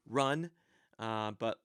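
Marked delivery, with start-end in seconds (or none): 0.1-0.5 sharp, louder command; a blunt command to run; commanding order. Shown as a demonstration. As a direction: bark it as an order. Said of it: "the command would be".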